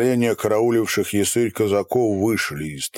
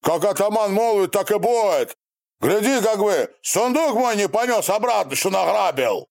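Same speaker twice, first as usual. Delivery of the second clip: shouting on; 11 semitones higher than usual. A narrator's reading. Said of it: "кричал".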